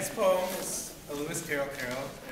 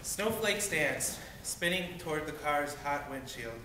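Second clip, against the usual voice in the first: measured poetry reading, line by line; poem recitation. Acted. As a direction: read it as a short poem, settling at the end.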